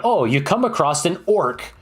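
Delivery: playful game master scene setting; lightly hammed-up storyteller. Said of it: "be like, you know".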